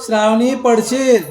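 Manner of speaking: warning call. Real, not acted. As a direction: stop her before she falls. Warning child she'll fall.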